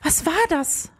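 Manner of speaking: high, startled little question; mildly frightened, pitched well up. A narrator's reading. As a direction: ask it with a touch of fright. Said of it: "hauchte Leonie erschrocken".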